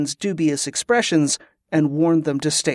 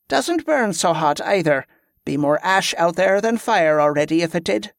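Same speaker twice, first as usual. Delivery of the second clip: a hint of a commander sizing up the danger; slightly raised character voice for a field commander; hard-headed commander; 3 semitones higher than usual.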